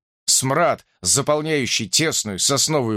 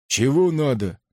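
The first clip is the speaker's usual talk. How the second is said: ordinary delivery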